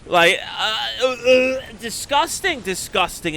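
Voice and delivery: high, loud, sputtering revulsion; loud disgust. Real, not acted. Caster recoiling at the sneezed-in book, loud and high. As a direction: spit out your disgust. Ranting about sweaty used book.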